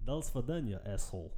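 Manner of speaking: put-on Russian accent, quick farewell. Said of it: "what's your Russian accent?".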